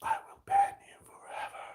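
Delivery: very high, soft mock threat; tiny high voice. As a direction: squeak the threat out quietly.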